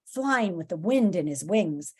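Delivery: dramatic, expressive storybook reading; story narration. A narrator's reading. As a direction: read the adventure with big emphasis. Reads the story aloud.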